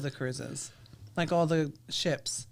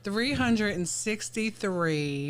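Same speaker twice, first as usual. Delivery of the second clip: slow dictation; much slower than usual. Real, not acted.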